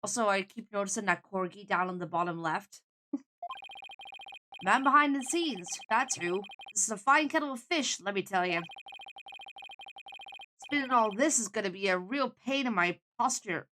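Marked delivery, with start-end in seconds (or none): 4.6-13.7 grumbling New York showbiz man; New York accent. Acted. Man behind the scenes complaining, grumbling New York accent. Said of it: "I'm getting a New York vibe".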